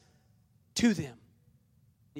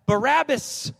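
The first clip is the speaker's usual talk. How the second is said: raised, mildly shouted crowd reply; crowd shouting back; 5 semitones higher, 3 dB louder, slower than usual. Acted. The crowd answers the governor, mild shout. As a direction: call it out higher, as the crowd. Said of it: "The crowd shouted back".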